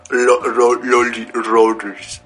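slow, stumbling "loli-, rorris" with R slipping towards L; can't pronounce R. Acted. Showing how those guys talk, failing the R in "rorris". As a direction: struggle through "rorris" unable to make the R. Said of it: "así hablan".

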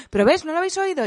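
put-on high child's voice pressing the point; insistent daughter. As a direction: mimic a kid insisting she heard it. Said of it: "nos insistió".

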